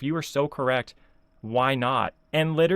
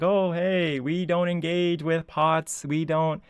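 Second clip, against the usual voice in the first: higher, drawn-out mocking imitation; mock quote; 4 semitones higher, slower than usual. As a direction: parrot the hypocrite in a raised, slower voice. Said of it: "when you're like".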